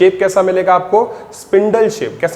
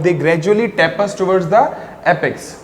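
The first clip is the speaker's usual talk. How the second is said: slow dictation; much slower than usual. Shown as a demonstration. Teacher dictating definition again.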